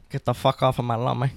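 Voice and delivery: put-on full Scarface Cuban gangster accent. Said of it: "Why did I just go full Scarface?".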